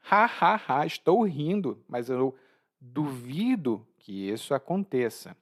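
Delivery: mock laugh, then doubtful; sarcastic disbelief; ironic. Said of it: "como uma maneira de ironizar".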